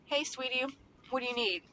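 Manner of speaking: soft, gentle hey sweetie; inviting tone. Shown as a demonstration. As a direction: invite the child in softly. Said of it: "that's inviting".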